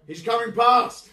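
loud, high, slow call; stretched-out high yell; shouted warning. Acted. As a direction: holler it out as a warning. Calling a warning in character.

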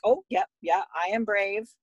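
retold parent dutifully repeating; obedient echo. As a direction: repeat it back compliantly, with a lift at the end. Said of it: "And I'm like".

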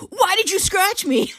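giggly imitation of a complaint; laughing mock whine. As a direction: mimic him whining, cracking up. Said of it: "he's like".

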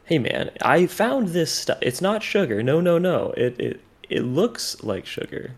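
slow, high surfer dude drawl; surfer guy voice. Acted. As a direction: play a spacey surfer dude. Surfer voice continues the dealer bit.

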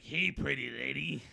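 mock sleazy guy; sleazy pickup line. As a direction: leer it like a bad flirt. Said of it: "he's like".

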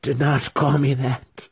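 high-pitched spirit's protest; shrieking spirit. A narrator's reading. Spirit to the wizard who summoned it, shrieking. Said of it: "the spirit shrieked".

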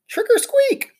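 high squeaky cry. Acted. Hamster under a cloth crying out to the class. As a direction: call it out again, ghostly. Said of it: "I cried".

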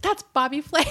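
high, loud retold outburst; excited recognition. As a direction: re-enact spotting someone famous. Retells spotting the cat online.

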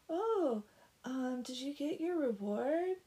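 high, drawn-out mock teasing; teasing mean girls. Mean girls calling to the blacksmith, teasing high voice. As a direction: taunt it like a mean girl. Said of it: "they're singing, and they're like".

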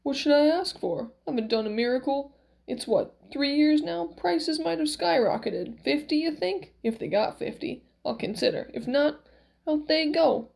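lightly voiced old man reckoning aloud; a touch of cranky old tradesman; Max, miracle man, haggling. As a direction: think through the price, growing decided.

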